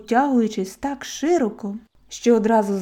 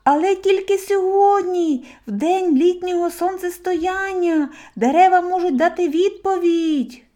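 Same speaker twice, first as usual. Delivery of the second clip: higher, loud call after someone leaving; shouting after; 9 semitones higher, 4 dB louder than usual. A narrator's reading. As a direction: throw it after him as he disappears. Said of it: "встиг крикнути навздогін".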